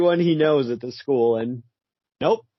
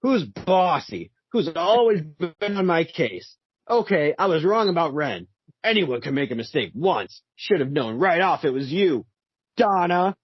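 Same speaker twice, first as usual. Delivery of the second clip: voicing Hawk; 4 semitones higher than usual. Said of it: "you should really do Hawk".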